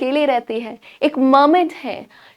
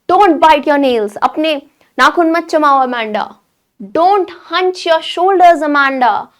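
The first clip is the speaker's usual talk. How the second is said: slow, loud scolding of Amanda; a mother scolding her daughter sharply; 3 semitones higher, 4 dB louder, much slower than usual. Acted. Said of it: "उसकी mummy उसको चिल्ला के कहती है". (डांटती हुई माँ)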